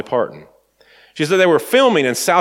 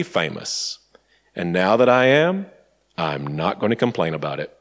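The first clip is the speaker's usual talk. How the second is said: unhurried Southern accent, lightly imitated; a country singer; 2 semitones lower than usual. Singer setting complaining co-star straight, light Southern accent. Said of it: "in her very southern accent".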